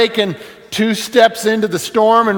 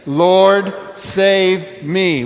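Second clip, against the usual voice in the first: plea said aloud; much slower than usual. Shown as a demonstration. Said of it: "Say it again".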